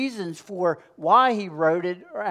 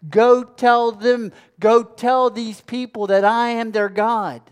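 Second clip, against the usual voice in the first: raised, emphatic voice of God from the pulpit; God commanding; 4 semitones higher, 4 dB louder than usual. Acted. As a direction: proclaim it as a divine command, high and forceful. Preacher voices God commanding Moses.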